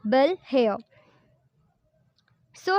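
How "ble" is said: bill sounded alone as the "bul" ending of comfortable; pause, then give bill as a short "bul"; isolated syllable. Shown as a demonstration. Teacher concentrates on last syllable, bill isolated. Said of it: "That is known as B L".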